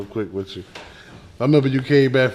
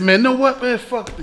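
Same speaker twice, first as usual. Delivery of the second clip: mock friend; 11 semitones higher than usual. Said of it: "He said".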